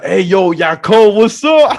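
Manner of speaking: high, loud imitation of a friend hollering hello; excited greeting. Security guard friend spots him at the club, excited greeting. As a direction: call out to a buddy, pitch jumping up.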